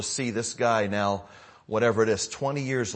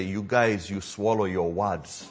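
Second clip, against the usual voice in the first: Kenyan English; slower than usual. Retold or imitated. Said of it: "They say".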